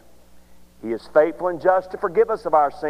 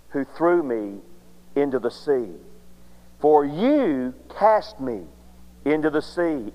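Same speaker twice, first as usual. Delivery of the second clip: low, hushed confession; 6 semitones lower, 6 dB quieter than usual. Acted. Jonah's confession voiced low.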